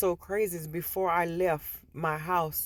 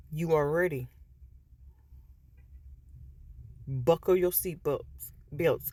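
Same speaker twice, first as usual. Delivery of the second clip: Spirit telling Shayla she is ready, lightly lowered and calm; Spirit speaking. Retold or imitated. Spirit's long speech.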